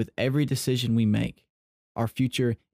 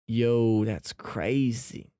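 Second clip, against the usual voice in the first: amazed yo; much slower than usual. Shown as a demonstration. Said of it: "like that, you can say, like, different".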